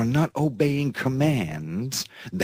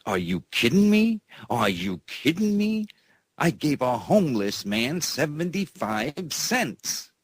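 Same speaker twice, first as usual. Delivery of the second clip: indignant quote; 6 semitones higher than usual. Retold or imitated. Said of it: "And I was saying".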